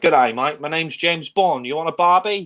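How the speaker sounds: hammed-up thick Australian accent; exaggerated Aussie Bond. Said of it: "It's not like he's saying".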